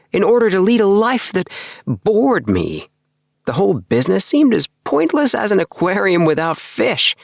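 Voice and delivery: put-on a bored young man venting his drudgery; lifted voice of a disillusioned clerk; Appleby's voice.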